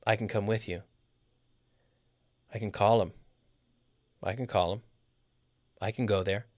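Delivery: CAN as a weak "kn" before the verb; reduced CAN. Shown as a demonstration. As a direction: slide over CAN onto the verb. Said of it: "we don't normally stress the affirmative".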